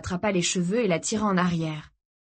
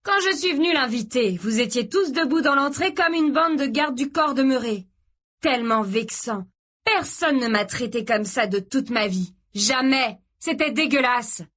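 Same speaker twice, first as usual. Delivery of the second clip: put-on furious boyfriend shouting; 6 semitones higher than usual. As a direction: spit out the insult with wounded pride. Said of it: "continua Mark en criant".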